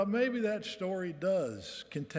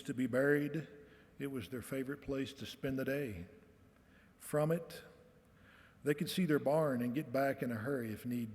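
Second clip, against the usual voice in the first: story reading; 2 semitones lower than usual. Acted. Reads his story to the audience.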